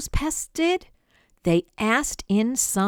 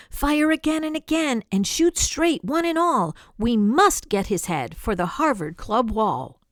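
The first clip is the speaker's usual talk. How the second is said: hunter shouting orders; 4 semitones higher than usual. Acted.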